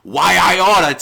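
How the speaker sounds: loud, hammed-up cartoon "Why I oughta"; hammed-up cartoon villain; old cartoon threat. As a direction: play an old-time cartoon bully. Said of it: "Tom and Jerry fucking nineteen forty-five windup".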